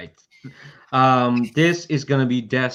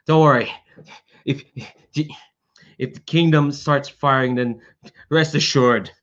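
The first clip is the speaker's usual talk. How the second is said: frazzled; 3 semitones higher than usual. Acted. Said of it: "he's frazzled in a way".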